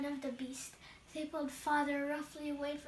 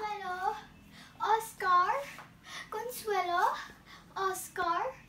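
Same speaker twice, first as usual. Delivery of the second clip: put-on higher, louder calls of the children's names; louder calling out; 3 semitones higher, 3 dB louder than usual. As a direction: shout the names as if from far away. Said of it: "Okay, stop".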